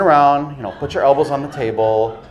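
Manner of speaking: put-on lightly done Indian accent, doctor at an exam; a hint of an Indian doctor giving instructions. Comedian voicing an Indian doctor during a prostate exam, light Indian accent. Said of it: "that was my Indian doctor voice".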